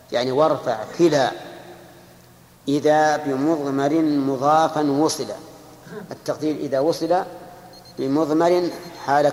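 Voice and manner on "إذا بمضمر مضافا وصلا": slow, drawn-out verse recitation; recited verse. Shown as a demonstration. Teacher recites the next verse of the Alfiyya, slow and chanted. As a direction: intone each word of the line slowly.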